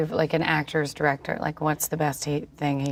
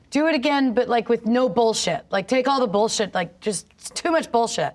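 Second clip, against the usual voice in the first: lightly voiced coaching director, higher pitch; 6 semitones higher than usual. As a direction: give a blunt note like a coach, pitched up. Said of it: "it's like a coach".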